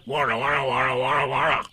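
rolling, repeated warbling cry; loud animal cry. A narrator's reading. Tigger leaping at the tablecloth, rolling war cry. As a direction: roll out a string of tiger noises. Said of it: "with one loud".

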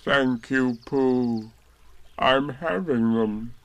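glum, slowed donkey reply; gloomy. Acted. Eeyore gloomily thanking Pooh for birthday wishes, glum. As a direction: let the thanks sink, gloomily. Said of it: "said Eeyore gloomily".

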